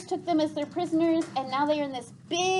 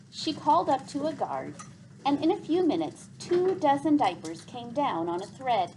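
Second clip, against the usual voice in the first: lively read-aloud voice, characters gently voiced; story narration. Teacher reading a chapter to the class, lively storytelling.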